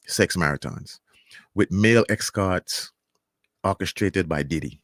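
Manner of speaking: measured read-aloud from an article; news report read-out. Acted. Vlogger reading a newspaper report to viewers, measured read-out. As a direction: read it out deliberately, phrase by phrase with pauses.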